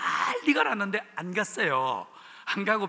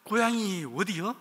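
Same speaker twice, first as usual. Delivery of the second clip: interrogating grandmothers; 3 semitones higher, slower than usual. Retold or imitated. Village grandmothers grilling the newcomer, lightly voiced interrogation. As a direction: grill him like a hearing panel, lightly voiced. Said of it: "마치 청문회 하는 것처럼".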